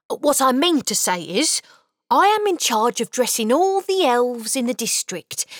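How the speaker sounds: a caught elf being friendly; cheerful little elf. Acted. Elf introducing himself to the boy, cheerful.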